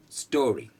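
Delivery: teacher says story clearly; demo story. Shown as a demonstration. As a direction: model the word story.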